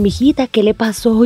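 a hint of the old doorman asking kindly; mild concerned doorman voice. Doorman asks what happened.

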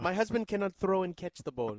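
mock accented wife complaint; Giselle. Co-host as the wife defending her husband, mock accent. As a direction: play the indignant foreign-accented wife. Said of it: "Giselle is very much".

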